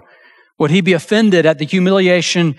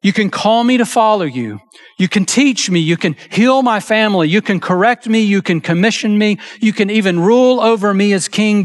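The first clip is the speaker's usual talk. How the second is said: pitched higher, listing each thing with building insistence; preacher voicing a demanding Peter, higher; 4 semitones higher than usual. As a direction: lay out the list like a man setting terms. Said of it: "Peter seems to be demanding".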